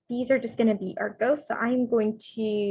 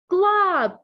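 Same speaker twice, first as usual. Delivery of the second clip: dramatic reveal; 8 semitones higher, 6 dB louder than usual. Acted. Monster appears, dramatic name.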